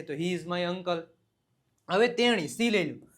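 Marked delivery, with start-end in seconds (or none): 0.1-1.0 slow dictation. Shown as a demonstration. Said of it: "તે મારા કાકા છે".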